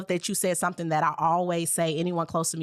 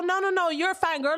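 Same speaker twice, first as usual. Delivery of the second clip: much higher, soothing rush of comfort; reassuring; 11 semitones higher than usual. Real, not acted. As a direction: comfort an emotional friend in a high voice. Host comforts emotional guest.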